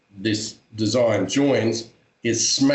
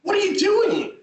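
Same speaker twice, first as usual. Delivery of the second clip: yelling in pain. Retold or imitated. Man in pain yelling at his tattoo artist, alarmed. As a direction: yelp it like the needle hurts. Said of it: "And I'm like".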